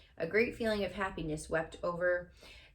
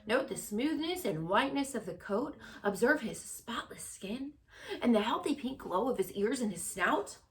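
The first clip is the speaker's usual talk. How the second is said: raised fair announcer voice, higher; loudspeaker announcer; 4 semitones higher than usual. Acted. Fair announcer praises the pig to the crowd, showman style. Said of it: "continued the loudspeaker".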